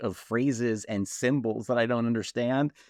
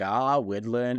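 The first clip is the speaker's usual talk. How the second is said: mock Maine accent; slower than usual. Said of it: "the guy's like".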